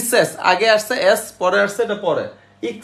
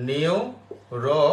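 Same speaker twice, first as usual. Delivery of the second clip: slow dictation; 3 semitones lower, much slower than usual. Shown as a demonstration. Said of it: "তাহলে এটা কি আসতেছে?".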